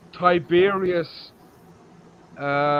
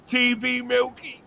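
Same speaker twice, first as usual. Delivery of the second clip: slow, shouted through laughter; mock graffiti read; 3 semitones higher, slower than usual. Retelling the nickname scrawled in the book, laughing shout. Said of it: "somebody crossed his name out".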